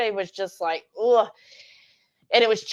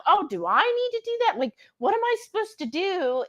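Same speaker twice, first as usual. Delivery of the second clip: much higher, faster anxious question; confused newcomer to keto wondering about carnivore, much higher mock panic; mock confusion; 10 semitones higher than usual.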